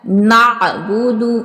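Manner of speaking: नअबुदु slow, ऐन from mid-throat; slow careful. Shown as a demonstration. Teacher modelling the throat ऐन for students. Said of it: "आइन को वस्ते हलक से".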